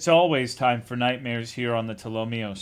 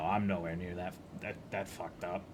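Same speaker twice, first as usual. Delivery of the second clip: low mutter; 5 semitones lower, 10 dB quieter than usual. Real, not acted.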